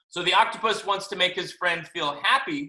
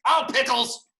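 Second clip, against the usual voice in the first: high-pitched playful complaint; mock protest; 8 semitones higher, 4 dB louder than usual. Kids telling parents they want to stay up, high mock dismay. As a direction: pretend to be a kid objecting to bedtime.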